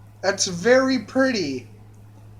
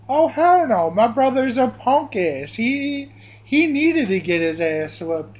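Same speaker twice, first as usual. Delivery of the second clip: mock indignant comeback, pitched up at first; acted indignation; 3 semitones higher than usual. Girl dismissing her beaten brother, mock indignant. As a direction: play up the sassy disbelief.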